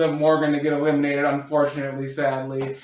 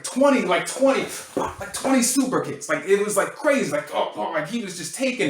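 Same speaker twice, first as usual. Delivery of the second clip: excited rave; 4 semitones higher than usual. Real, not acted. Raving about twenty super kicks.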